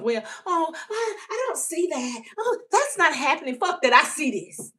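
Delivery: rising to an angry shout; high heated outburst, mostly shouted; defiant rant. Retold or imitated. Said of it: "I'm not gonna sit here and tell myself".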